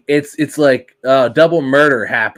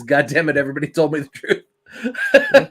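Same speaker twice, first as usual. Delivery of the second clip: laughing mock groan. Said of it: "my experience is".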